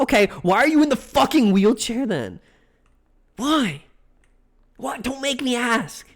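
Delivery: high-pitched, fed-up retold demand; frustrated pleading blow-up; exasperated outburst. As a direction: snap and demand the answer, acting it out. Acts out exasperated questioning of patient.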